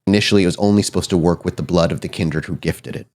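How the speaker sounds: measured storytelling in phrases set apart by pauses; game master's lore narration. A narrator's reading. Game master reveals the mirror's history, measured narration. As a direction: unfold the mystery with restrained gravity.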